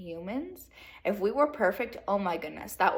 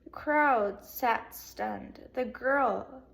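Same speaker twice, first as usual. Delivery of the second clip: slow dramatic reading; much slower than usual. Shown as a demonstration. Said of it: "Let me say that again".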